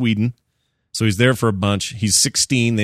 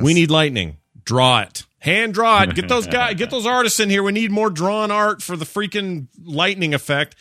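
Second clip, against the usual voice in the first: higher, bossy studio exec barking orders; pushy producer; 9 semitones higher than usual. Retold or imitated. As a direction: play an eighties producer demanding hand-drawn lightning, slowing at the end. Imitating eighties producer ordering artists.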